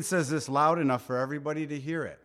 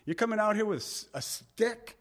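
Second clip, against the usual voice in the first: high, fast scornful disbelief; Goliath jeering at David's stick; mocking Goliath; 6 semitones higher than usual. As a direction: scoff at the boy with a stick.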